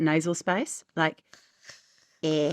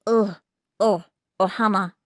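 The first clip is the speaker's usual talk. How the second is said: Stitch voice attempt; 2 semitones higher, 4 dB louder than usual. Shown as a demonstration. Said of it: "as I go to do it".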